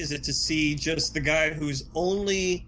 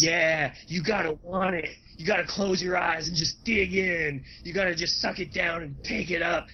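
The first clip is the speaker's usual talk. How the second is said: seductive voice; 3 semitones higher than usual. Retold or imitated. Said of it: "he even put on a seductive voice".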